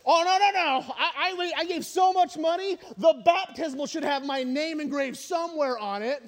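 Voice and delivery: mock brag about the big gift; showy, self-satisfied giver; boastful donor. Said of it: "weren't we?".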